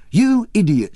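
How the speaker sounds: high, loud scolding cry. A narrator's reading. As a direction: yell it at the fool. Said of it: "she cried out".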